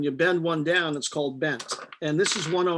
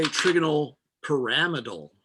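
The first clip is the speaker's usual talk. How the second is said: snooty. Shown as a demonstration. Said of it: "if you wanna sound snooty".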